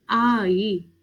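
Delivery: आई said with a light curving lilt; curvy lilting tone. Shown as a demonstration. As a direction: glide आई up and down gently like Korean. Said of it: "हल्की-सी curvy tone में जाती है".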